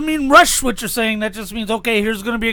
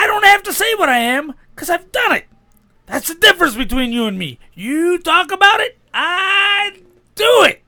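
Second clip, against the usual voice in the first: raised, shouting wrestler voice; wrestling promo; 7 semitones higher than usual. Pretend. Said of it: "a wrestling promo".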